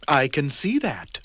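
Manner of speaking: unimpressed once-over; lightly voiced tidy man; dry reply.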